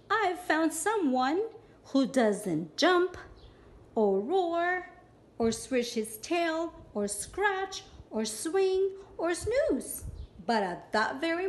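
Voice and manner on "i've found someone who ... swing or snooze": ladybug voice. Acted. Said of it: "thought the lazy ladybug".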